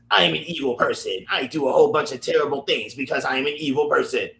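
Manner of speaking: hammy evil villain announcing himself; cartoon villain voice. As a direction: ham up a cartoon bad guy. The villain line said again.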